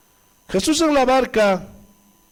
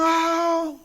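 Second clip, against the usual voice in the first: mock terrified scream; 8 semitones higher than usual. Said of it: "Y ellos gritaban".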